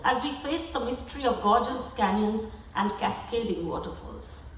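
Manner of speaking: emphatic, carefully phrased literary reading; prose poem recital. Acted. Poet reading a Yosemite travel piece to an audience, emphatic recital. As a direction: read it out to the room with deliberate stresses, settling at each close.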